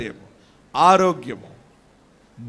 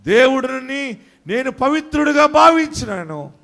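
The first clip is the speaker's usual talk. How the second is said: raised-pitch preaching declaration; impassioned preaching; 6 semitones higher than usual. Real, not acted. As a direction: declare it to the congregation, pitch lifting.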